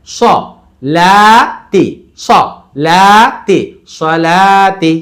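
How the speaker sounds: quick স, long loud লা, short তি; stretch on middle syllable. Shown as a demonstration. Teacher drilling the word by syllables, long লা between short স and তি. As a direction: hold only the লা in সলাতি. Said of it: "but তাড়াতাড়ি".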